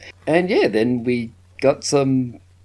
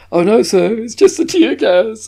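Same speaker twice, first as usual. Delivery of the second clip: high, louder attempt at her movie accent; a half-hearted go at the actress's accent; imitating Kylie's accent; 11 semitones higher, 6 dB louder than usual. Quoting the actress's line with a mock accent. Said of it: "I can't do the accent she did".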